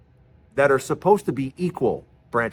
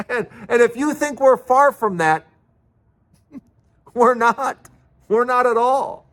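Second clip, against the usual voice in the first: nervous laugh; 9 semitones higher than usual. Real, not acted. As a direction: talk through nervous laughter. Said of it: "It's a nervous laugh".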